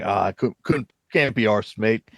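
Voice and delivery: halting, badly faked British accent; terrible British accent. People in early streaming days can't be bothered, bad British accent. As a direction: fumble through a bad British impression. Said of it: "That was a terrible British accent".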